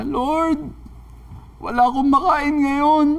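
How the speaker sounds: high, pleading wail to God; hammed-up tearful plea, pitched high; imitated tearful prayer. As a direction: act out a crying old woman praying. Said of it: "paglabas niya, umiiyak siya".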